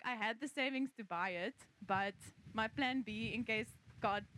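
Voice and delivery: talking over wind noise; windy. Real, not acted. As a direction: voice buffeted by wind outdoors. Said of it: "can you hear me with the wind?".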